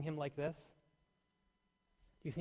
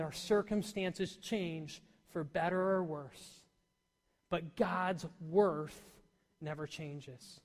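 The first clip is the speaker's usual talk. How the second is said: slow quoting; much slower than usual. Retold or imitated. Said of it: "Tony Dungy said this".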